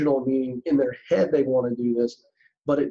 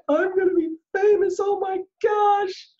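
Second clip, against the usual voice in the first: giddy fame-struck squeal. Retold or imitated. Mocking a talent-show kid who just wants fame, in a high mock squeal. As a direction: ham up a contestant dreaming of fame, the last words drawn out slowly. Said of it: "it is not a cry".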